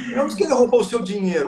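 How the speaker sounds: quick, "dinheiro" stressed; weight on "dinheiro". Shown as a demonstration. Coach demo to viewers, stress on "dinheiro". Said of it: "se não foi o seu dinheiro".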